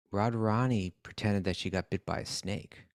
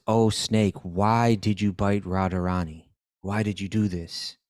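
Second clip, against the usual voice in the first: slow, mildly grand summoning of a spirit; snake doctor invoking; 3 dB louder, slower than usual. Retold or imitated. Krishna as snake doctor questions the snake, slow mock incantation. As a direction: put slow, weighty stress on each plea.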